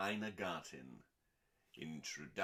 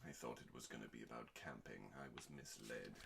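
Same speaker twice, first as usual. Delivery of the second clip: deadpan complaint; 9 semitones lower, 12 dB quieter, faster than usual. Real, not acted. Deadpan comment after reading.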